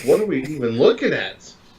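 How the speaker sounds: ordinary talk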